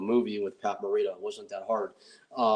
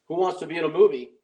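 loud, fast, higher recruiting call; 6 semitones higher, 7 dB louder, faster than usual. Retold or imitated. Recruiting strip club girls for the movie, loud fast call. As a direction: hawk it to the room like a barker.

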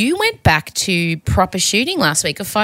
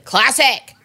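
imitated yell, pitch jumping up on the repeat; hammed-up holler, not full volume; mock yelling; 4 semitones higher, slower than usual. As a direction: mimic someone calling out a catchphrase. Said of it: "was walking around yelling".

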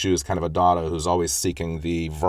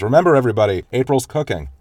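higher, louder announcing call; 5 semitones higher, 4 dB louder, faster than usual. Retold or imitated. Father reminding the family in the car, called out over the noise. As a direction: raise the voice over the chatter.

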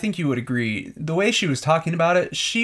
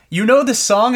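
imitating Peter; 7 semitones higher, 4 dB louder than usual. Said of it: "Peter goes".

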